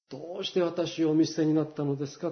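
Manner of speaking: understated, hushed plea; hushed quoted cry. Retold or imitated. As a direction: say the cry quietly, as reverent quotation. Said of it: "叫んでくださった".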